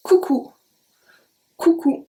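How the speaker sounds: coucou sung up high and light, falling; friendly coucou. Shown as a demonstration. Teacher shows the close-friends greeting, high and chirpy. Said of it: "That's pretty for friends, really close person".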